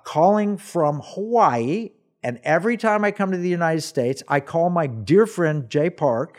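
put-on lightly Korean-accented, deliberate phone manner; Paul Yonggi Cho. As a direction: imitate a Korean caller, drawing words out. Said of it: "a very Korean, broken English voice".

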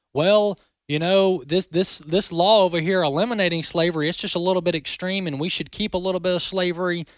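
mock the commentator's hedging tone; mocking Bill Kristol. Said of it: "put Bill Kristol, uh, on, uh, the local newspaper".

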